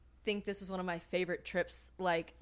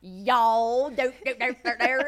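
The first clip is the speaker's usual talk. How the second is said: loud, high mimicry of an American accent; mock American accent; 4 semitones higher, 9 dB louder, slower than usual. Foreigners making fun of the Americans' talk, mock accent. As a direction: parody the American "y'all" accent with nonsense syllables. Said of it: "they're talking about us being like".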